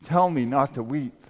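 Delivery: loud, indignant outburst at Jesus; self-righteous anger. Retold or imitated. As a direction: protest as if you are entitled, pitch jumping up. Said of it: "this self-righteous anger".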